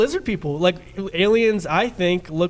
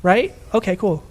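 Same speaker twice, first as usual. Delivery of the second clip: put-on Valley Girl voice with upspeak on each question; much slower than usual. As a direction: play a Valley Girl showing off a house. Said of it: "I can do a pretty good Valley Girl impression".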